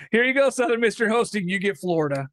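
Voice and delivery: teasing mock announcement; mock sarcastic. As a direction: hand it over with a smirk. Mock committee voice handing host.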